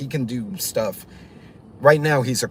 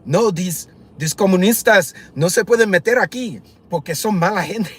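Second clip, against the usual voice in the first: raised, higher, heated Spanish outburst; loud rant in Spanish; 5 semitones higher, 5 dB louder than usual. Retold or imitated. Cuban driver ranting to his passenger about communists, loud. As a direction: let it rip in fast Spanish. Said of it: "his voice got loud".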